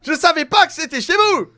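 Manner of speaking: high, loud, frantic begging; panicked pleading intruder. Acted. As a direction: beg your way out, caught red-handed. Caught intruder pleading in character.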